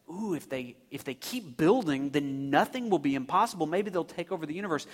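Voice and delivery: soft, low pretend worry; hushed mock anxiety, quickening at the end; mock threatened. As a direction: fret quietly in feigned alarm. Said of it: "threatened by these people".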